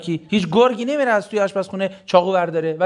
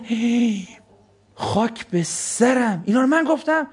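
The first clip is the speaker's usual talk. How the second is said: mock shock; 4 semitones higher, much slower than usual. Shocked speaker mimicked.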